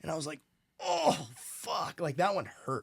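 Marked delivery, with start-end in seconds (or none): 0.8-2.0 dismayed realization. Retold or imitated. Realizing he is a wanderer.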